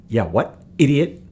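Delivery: Idiot yelled high and loud; taunting yell; mocking shout. Real, not acted. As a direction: bark it up at them in scorn. Mocking yell at imagined viewer.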